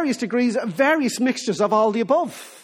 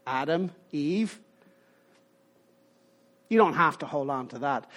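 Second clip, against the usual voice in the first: mock skeptic; 5 semitones lower than usual. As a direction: brush it off like a modern critic, half-mocking. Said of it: "Now you might say".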